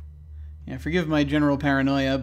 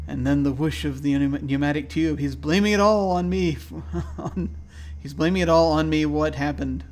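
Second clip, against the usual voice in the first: higher, louder, rising paranoid rant; paranoid diary voice; 3 semitones higher, 5 dB louder than usual. Acted. Gamer voicing a paranoid patient's diary, agitated. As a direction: read it like a man losing his grip.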